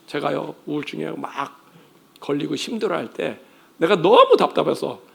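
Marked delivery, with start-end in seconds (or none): none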